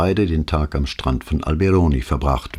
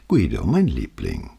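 cooing; 4 semitones lower than usual. A narrator's reading. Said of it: "gurrte sie".

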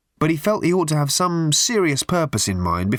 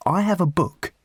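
higher-pitched announcement; announcing; 8 semitones higher than usual. A narrator's reading. Rob McKenna revealing his diary to Arthur, announcing it. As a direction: pitch it up like a revelation. First take before emphatic repeat.

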